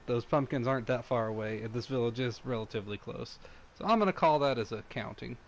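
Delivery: talking while eating chips; chewing between words; crunching chips. Real, not acted. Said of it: "Sorry for the crunching".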